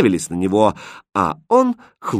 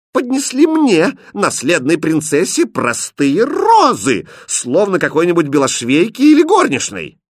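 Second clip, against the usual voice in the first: angry; 8 semitones higher, 6 dB louder than usual. Acted. Princess berates the prince over plain roses, loud angry. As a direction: lay into him for the insult.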